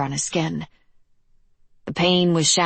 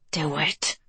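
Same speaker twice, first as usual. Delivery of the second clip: soft tempting whisper; 5 dB quieter than usual. Acted. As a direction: breathe it like a voice inside her head. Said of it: "whispered the thing in her head".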